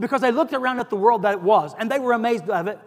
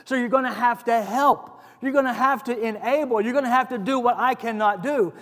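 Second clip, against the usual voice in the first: retold prayer; 2 semitones higher than usual. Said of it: "I was just praying".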